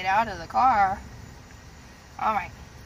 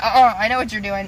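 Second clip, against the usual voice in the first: voicing the dog; 6 dB louder than usual. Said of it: "He's like".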